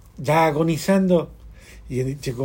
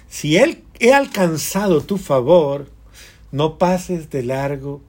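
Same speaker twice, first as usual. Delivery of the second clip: pleading prayer; 7 dB louder, slower than usual. Acted. Abraham pleads with the Lord.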